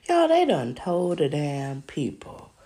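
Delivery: loud, slow outraged drawl; indignant rant. Real, not acted. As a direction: hammer each word in disbelief. Ranting about news report.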